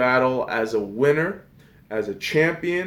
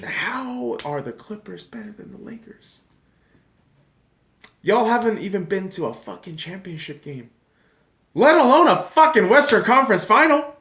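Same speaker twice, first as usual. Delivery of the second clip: higher and louder, building to an exasperated yell; heated rant; 8 semitones higher, 5 dB louder than usual. Real, not acted. Vlogger ranting at Patrick Beverley's Clippers claim. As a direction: vent your outrage louder each line.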